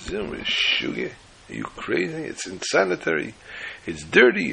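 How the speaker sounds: high, sneering voice of a scoffing surgeon; mocking doctor. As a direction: ridicule the patient, pitch way up. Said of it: "He was making fun".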